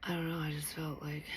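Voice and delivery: soft unvoiced whisper. Real, not acted. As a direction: barely breathe the words. Weird sudden feeling.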